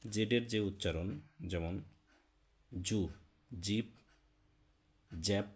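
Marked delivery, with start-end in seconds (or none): 2.7-5.5 জু জিপ জ্যাপ with a buzzing z; firm z on জ্যাপ; hard z sound. Shown as a demonstration. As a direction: buzz the z in জু. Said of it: "একটু শক্ত উচ্চারণ করতে হবে".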